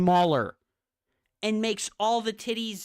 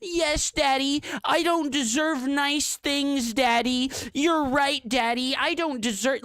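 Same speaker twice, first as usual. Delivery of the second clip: high, mock-submissive pleading voice, louder; mocking submissive quote; 9 semitones higher, 4 dB louder than usual. Streamer mocking Heaven as submissive, high mock pleading. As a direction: grovel in mockery, pitched up. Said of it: "And you were like".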